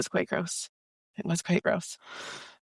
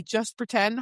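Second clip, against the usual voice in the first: lightly voiced woman character, usual pitch; Poppy; slower than usual. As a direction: give a light reading of the heroine's line.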